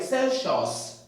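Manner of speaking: "Celsius" said as sel-shos, wrong. Shown as a demonstration. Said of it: "It's pronounced as Celsius".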